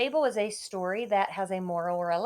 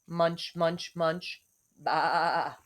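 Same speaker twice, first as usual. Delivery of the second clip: sheep munching; 3 semitones lower, much slower than usual. Acted. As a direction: chew it out like a grazing sheep. Sheep protesting.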